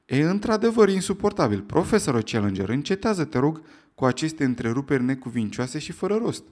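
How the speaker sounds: exasperated shout. Acted. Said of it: "a strigat".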